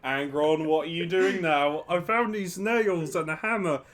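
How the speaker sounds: loud, exasperated telling-off; exasperated scolding. Pretend. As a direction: scold a child loudly. Malcador scolding child with nails.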